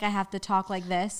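slow it down for the listener; slowed-down talk. Shown as a demonstration. Fast talker showing how people make them talk, slowed down. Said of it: "Slow down".

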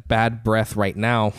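"bad breath right now" drawn out at half speed; slow joking demo of "bad breath right now". Shown as a demonstration. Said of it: "if I have bad breath".

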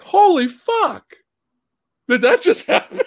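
high, slow holy fuck breaking into a laugh; retold shock with a laugh. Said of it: "it's like".

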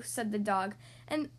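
put-on lilting children's storybook reading; story narration. A narrator's reading. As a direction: read a rhyming tale to young children. Reads a picture book aloud.

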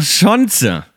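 Chance in two syllables, "schon-tse"; slow Chance with the CE ending voiced; sounded final E. Shown as a demonstration. Showing a third variant to the co-host, final E pronounced. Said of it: "Mit Betonung auf dem C E".

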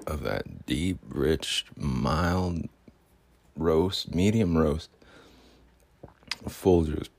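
lightly voiced smooth talker; bling character. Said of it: "I turn into this character who's Bling".

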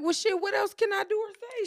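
defiant retort to a mocking lover; exasperated outburst. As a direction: push back, fed up and ashamed. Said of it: "I'm like".

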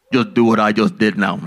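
put-on older preacher instructing. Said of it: "he goes".

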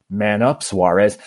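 lightly voiced taunt; a hint of a mocking heckler; heckler's jeer. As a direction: toss it out like a bar loudmouth. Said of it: "I hear it again".

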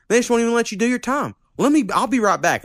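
put-on high, folksy old sheriff voice. Old sheriff reassuring the young arrestee, pitched high.

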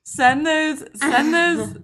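high, eager repeat; excited. Real, not acted. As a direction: push them to send it now. Urging them to send videos.

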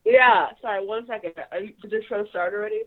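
talking through a toothbrush; words blurred by brushing teeth; while brushing teeth. Real, not acted. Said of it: "I am brushing my teeth".

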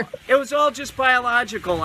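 a sudden defensive shout; half-shouted excuse; defensive outburst. Acted.

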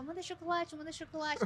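calls for chocolate again, held back; mild mock yell. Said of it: "gritando pro piloto do avião". (grito imitado bem contido)

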